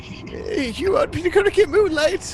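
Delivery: high, breathy-onset surprised voice; a surprised old man asking back; startled professor. Acted. Professor asks the player if he should fetch Moonlight, surprised.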